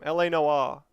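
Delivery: "Noire" said the Australian way; Australian accent. Shown as a demonstration. Gamer insisting on saying it his own way, Australian accent. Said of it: "you gotta say it the Australian way".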